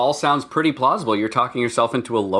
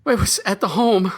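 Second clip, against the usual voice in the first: ghost voice; 5 semitones higher than usual. Acted. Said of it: "like my ghost voice?".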